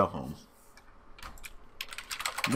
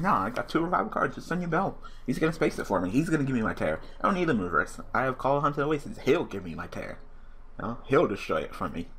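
mock cocky; 4 semitones higher than usual. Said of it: "but I was like".

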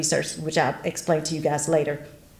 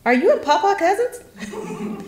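put-on child asking; 13 semitones higher, slower than usual. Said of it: "I said".

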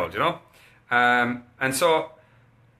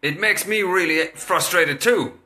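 put-on higher, slow child voice echoing dad; five-year-old; 5 semitones higher, slower than usual. Five-year-old copying dad's frustration, childlike. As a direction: pipe up like a small kid. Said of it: "the five-year-old pipes up and says".

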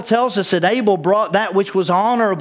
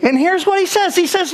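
ordinary delivery

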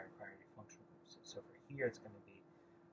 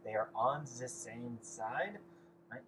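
slow, hammed-up bad German accent; deliberately drawn-out mock German accent; a joking bad German accent for the students; 4 dB louder, much slower than usual. Shown as a demonstration. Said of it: "In a bad German accent".

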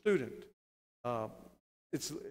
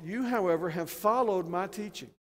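raised, louder stress on "You" and "followed"; emphatic; 4 semitones higher, 4 dB louder than usual. Shown as a demonstration. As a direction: hit "You" and "followed" hard, pitched high. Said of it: "It's emphatic".

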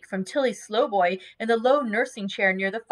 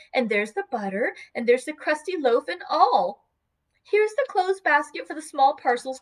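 higher, brisk housekeeping voice, like a child playing house; briskly busy; 5 semitones higher than usual. Dot laying out supper for John, brisk and higher.

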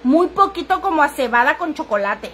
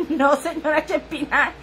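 laughing; 3 dB quieter than usual. Retold or imitated. Retold joke reply, laughing.

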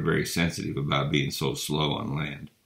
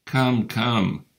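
Santa calming them; 6 semitones higher, 4 dB louder than usual. A narrator's reading. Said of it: "said Santa Claus".

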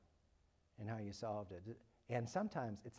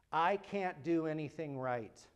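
put-on child's self-talk; 4 dB louder, slower than usual. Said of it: "negative self-statements".

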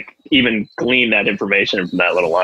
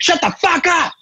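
much higher mock outburst; Tom cutting in. Co-host shooting down a friend's idea, high mock outburst. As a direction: imitate an explosive, high-pitched shutdown. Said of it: "And Tom's like".

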